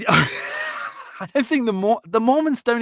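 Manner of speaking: slow, laughing while talking; real giggle breaking the words; laughing through words. Real, not acted. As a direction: still laughing it off. Laughing after the spill.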